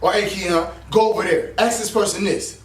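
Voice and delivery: a low-pitched nudge from inside the head; little inner voice. Acted. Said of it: "It's a little voice that we hear".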